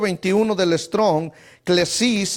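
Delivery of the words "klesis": "klesis" stressed on the I. Shown as a demonstration. Teacher giving a Greek word, "klesis" stressed on the I. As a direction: put the weight on the I of "klesis". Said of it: "el acento en la I".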